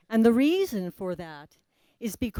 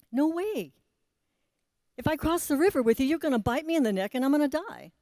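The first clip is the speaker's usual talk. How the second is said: turtle refusing; 5 semitones higher, faster than usual. Acted.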